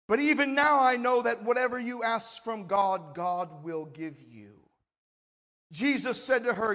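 measured, emphatic pulpit reading; solemn Bible reading with firm stresses; Scripture reading. A narrator's reading. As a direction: read the passage out to a congregation, weighing each phrase. Reads Scripture to congregation.

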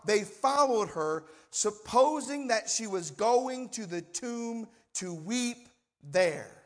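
measured, emphatic pulpit reading; solemn Bible reading with firm stresses; Scripture reading. A narrator's reading. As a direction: read the passage out to a congregation, weighing each phrase. Reads Scripture to congregation.

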